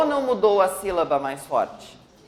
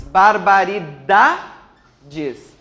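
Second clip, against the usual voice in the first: BARBARIDADES broken after a rising, held DA; stress on DA; 2 semitones lower, 3 dB louder, much slower than usual. Shown as a demonstration. Teacher isolating the strong syllable, BARBARIDADES split after DA. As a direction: draw out "barbari-DA", pause, then drop "des" in BARBARIDADES. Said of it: "Dá e o ba".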